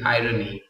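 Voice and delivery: "irony" as eye-ruh-nee; three clear syllables in "irony", r sounded; correct pronunciation of irony. Shown as a demonstration. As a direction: say "irony" with r opening the middle syllable. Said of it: "The only pronunciation this word has".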